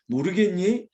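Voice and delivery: patient question with a light lift; patient explaining. Acted. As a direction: ask it as if kindly explaining. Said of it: "하나님께서 자상하게 설명해".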